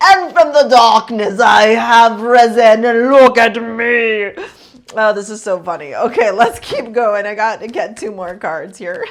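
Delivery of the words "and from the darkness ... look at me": booming, slow, dramatic vampire voice. Reading tarot, describing mysterious Scorpios, speaking in a Dracula voice. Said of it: "it's like you're Dracula".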